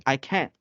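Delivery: British-style can't with silent final T. Shown as a demonstration. Teacher demonstrating British accent, can't with unheard T. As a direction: swallow the T at the end of can't. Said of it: "It's British".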